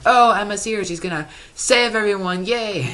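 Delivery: high, gushing mock cheer; hammed-up happy squeal of hope; cheery mock celebration. Vlogger mocking the happy first episode, high gushing cheer. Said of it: "it's like".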